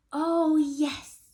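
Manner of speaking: high, loud eager yes. Acted. Kristen keen to see the baby, high and loud. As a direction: answer brightly and eagerly. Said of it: "said Kristen".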